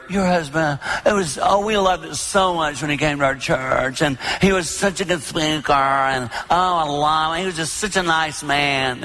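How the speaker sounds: gushing churchgoer. Retold or imitated. Mourners praising the preacher to his widow, lightly gushing. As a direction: gush sweetly about the late preacher.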